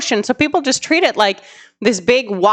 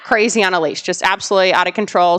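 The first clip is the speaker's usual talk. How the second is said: ordinary delivery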